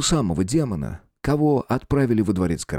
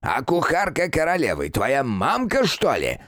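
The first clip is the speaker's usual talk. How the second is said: put-on high, rasping old man bickering; grumpy old man; 5 semitones higher than usual. (ворчливый старик)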